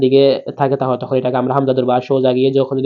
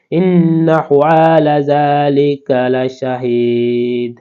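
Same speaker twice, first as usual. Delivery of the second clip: slow, raised Quranic chant; slow recitation; much slower than usual. Shown as a demonstration. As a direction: lift the verse and draw every vowel out. Reciting the verse.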